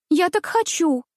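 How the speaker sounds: high, petulant little princess; stamping her foot as she insists; capricious demand. A narrator's reading. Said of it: "топнула ножкой княжна". (капризно, топнув ножкой)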